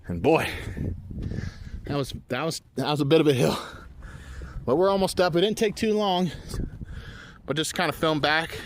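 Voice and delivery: winded after a steep climb; panting between words; out of breath. Real, not acted. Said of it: "I'm out of breath".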